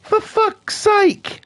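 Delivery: very high, slow drawn-out groan of annoyance; slow exasperated sigh of a line; exasperated mutter. Retold or imitated. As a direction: let it drag out fed up. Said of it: "And I'm like".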